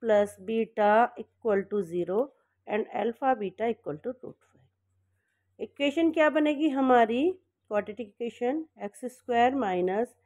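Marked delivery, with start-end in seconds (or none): 0.0-5.6 very slow, word by word for writing down; dictating at a crawl; slow dictation. Shown as a demonstration. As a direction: spell it out slowly so students can copy. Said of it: "तो लिख दो यहाँ पे".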